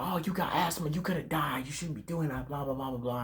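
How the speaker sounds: high-pitched, quiet nagging imitation; high mocking voice, dismissively running on. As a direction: mimic a fussy scolding, trailing into blahs. Mimics someone scolding him for danger.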